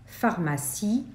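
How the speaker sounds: pharmacie said slowly and distinctly; slow, clear word. Shown as a demonstration. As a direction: model pharmacie for the class. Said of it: "les différentes graphies".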